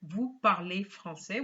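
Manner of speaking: Vous parlez français said flat as a statement, no rise; statement tune. Shown as a demonstration. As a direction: say it as a plain statement ending down. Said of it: "with a full stop".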